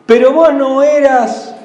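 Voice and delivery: lightly voiced sneering taunt; mocking taunt. Unbelievers mocking a believer in need, mild sneering taunt. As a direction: jeer at the believer who asked for help. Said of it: "Cuando uno a veces está pidiendo ayuda".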